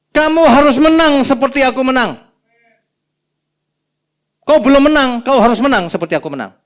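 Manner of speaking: booming exhortation. Retold or imitated. Quoting God in Revelation.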